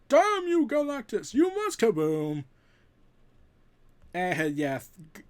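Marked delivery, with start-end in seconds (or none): 0.1-2.5 loud, spat-out curse; a foe cursing Galactus, loud and furious. Acted. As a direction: hurl it at him.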